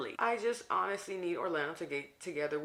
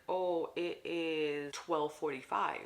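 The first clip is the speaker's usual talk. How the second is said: lady's reply; much slower than usual. Retold or imitated. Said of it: "The lady's like".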